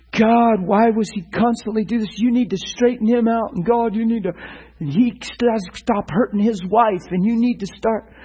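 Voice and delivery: complaining prayer. Shown as a demonstration. Preacher mocking the wrong way to pray, accusing and demanding. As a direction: nag God about what's wrong with him. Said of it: "I have to work to try to pray that way".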